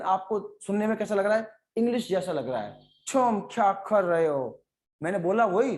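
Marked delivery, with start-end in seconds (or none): 3.1-4.6 English accent. Shown as a demonstration. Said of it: "but accent का डाल दिया, English जैसा".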